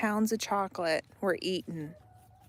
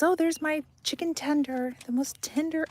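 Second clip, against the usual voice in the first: imitating son; 7 semitones higher than usual. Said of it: "And he goes".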